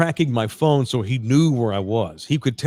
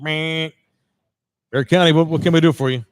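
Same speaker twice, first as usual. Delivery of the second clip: intercom receptionist; 4 dB louder than usual. Retold or imitated. Intercom voice at the sheriff's.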